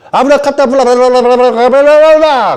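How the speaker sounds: high, rolling babble parodying tongues; hammed-up glossolalia gibberish; mock speaking in tongues. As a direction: rattle off nonsense syllables in one long rising gush. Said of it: "그러면서 방언".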